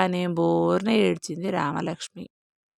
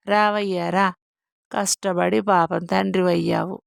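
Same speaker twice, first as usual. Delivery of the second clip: loud mocking welcome; sarcastic taunt; 5 dB louder than usual. Mother mocking the husband who beat her daughter, loud sarcasm. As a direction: jeer at him with fake praise.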